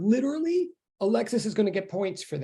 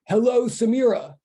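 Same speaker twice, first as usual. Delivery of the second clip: higher-pitched roll of hellos, each falling away; calling out greetings; 4 semitones higher, 4 dB louder than usual. Real, not acted. Teacher greeting students as they come into online class, calling out. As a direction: greet each one by name in a raised, lilting call.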